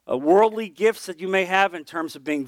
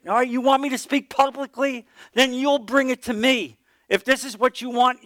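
pleading prayer; 6 semitones higher than usual. Retold or imitated. Bargaining with God, retold.

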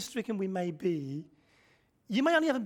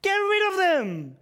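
slow, drawn-out loud dismissal; cold-hearted disciples; 10 semitones higher, 6 dB louder, slower than usual. Retold or imitated. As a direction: spell out the brush-off slowly and coldly. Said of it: "These are serial cold hearters".

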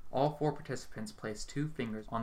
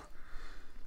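gleeful cackle; 4 dB quieter than usual. A narrator's reading. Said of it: "Hazel cackles loudly".

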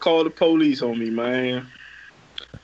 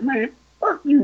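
raised-pitch mock cursing; retold angry curse; 7 semitones higher than usual. Other driver cursing him in traffic, mock angry.

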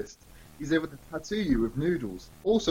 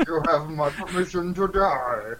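Bane impression. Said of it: "Bane from Batman".

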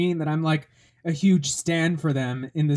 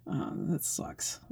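whisper; 12 dB quieter, slower than usual. Retold or imitated. Dismissive whispered aside as a kid.

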